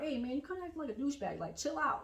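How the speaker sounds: quick light-touch telling-off, kept gentle; not rude. Acted. Telling a friend off kindly, soft friendly nudge. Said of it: "don't be rude about it".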